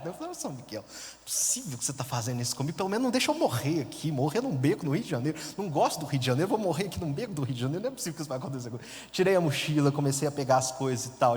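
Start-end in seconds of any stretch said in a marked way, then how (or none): 0.3-8.9 upset plea. Retold or imitated. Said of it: "muito chateado".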